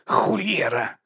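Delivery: put-on high, falling oath from an old tramp; old tramp's exclamation. A narrator's reading. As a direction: exclaim it high, then let it fall.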